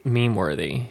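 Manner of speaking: stuffy, nasal tone like a cold. Real, not acted. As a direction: talk through the nose. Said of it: "why do I sound so nasally today?".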